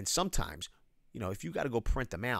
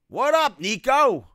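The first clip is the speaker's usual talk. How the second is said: much higher, louder, a playful mock yell; 13 semitones higher, 14 dB louder, slower than usual. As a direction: belt out the greeting as the yelling wife. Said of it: "my wife is yelling at me".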